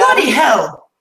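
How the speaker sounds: playful attempt at a British accent; mock British accent. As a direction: try on British English, loudly and briefly. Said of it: "you should probably do a British accent".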